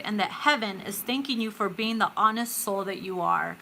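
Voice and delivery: earnest, measured read of the full message; oracle card reading. Acted. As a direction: deliver it like a gentle spiritual reassurance.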